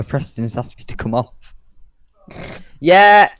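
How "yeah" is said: loud high whoop of joy; excited cheer. Real, not acted. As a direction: cheer the plane on. Cheering loudly.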